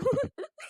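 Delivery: short, taunting chuckle at someone's tears; mocking laugh. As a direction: laugh at the crying daughter-in-law. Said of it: "बघा ना कशी हसते तुमची आई". (सुनेच्या रडण्यावर टिंगलीचं हसू)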